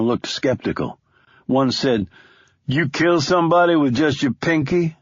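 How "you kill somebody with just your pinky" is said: lightly voiced street kid, higher; a hint of a teasing kid; cocky young man. Young man needling Stone about his gun, lightly voiced.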